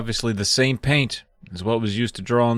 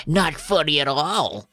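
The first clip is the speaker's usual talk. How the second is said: higher, slow gruff little gnome; Chip; 4 semitones higher, slower than usual. A narrator's reading. Second gnome echoing the warning, slow gruff little voice. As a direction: draw it out as a tiny creepy creature. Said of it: "hears their tiny little gruff voices".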